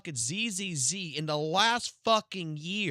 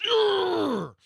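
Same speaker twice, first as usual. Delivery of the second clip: mock hype yell; 6 dB louder than usual.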